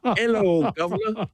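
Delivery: high, bright sing-song Hello, governor; loud greeting. Retold or imitated. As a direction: sing it out in a Glasgow voice across the lobby. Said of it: "in the loudest voice imaginable".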